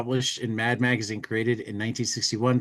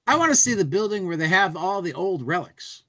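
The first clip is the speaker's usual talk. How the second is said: comic bubble voice; 7 semitones higher than usual. Acted. Reading a comic bubble aloud.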